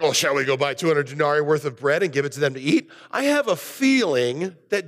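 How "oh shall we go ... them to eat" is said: a touch of sarcasm, quick; mock snippy comeback. Judas snapping back at Jesus, mildly sarcastic and quick. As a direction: throw it back with mild snark. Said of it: "They snap back".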